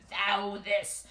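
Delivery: lightly voiced spooky death god; mock archaic intoning; a hint of spooky god; super spooky voice. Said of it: "like, super spooky voice, and proceeds for the rest of the conversation".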